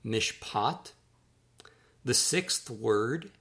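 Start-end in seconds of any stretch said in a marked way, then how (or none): 0.0-0.9 "Mishpat" said as meesh-PAHT; careful Hebrew "Mishpat", meesh-PAHT; Hebrew pronunciation. Shown as a demonstration. Author teaching readers a Hebrew word, careful meesh-PAHT. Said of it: "that's pronounced mishpat".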